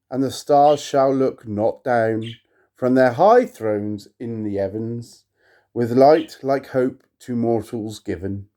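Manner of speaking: measured, solemn recitation; poem reading. Acted. To viewers, reading Poe aloud, solemn poetic recitation. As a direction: intone the verse with gravity.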